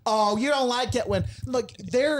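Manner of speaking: high, put-on cooing voice; mock cooing neighbor. Neighbors talking to the dog, high put-on coo. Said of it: "They're like".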